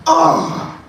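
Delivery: short high-pitched "ugh"; high grunt between two choices; quick, high mock grunt; acted ugh. Acts offering fingers to smell.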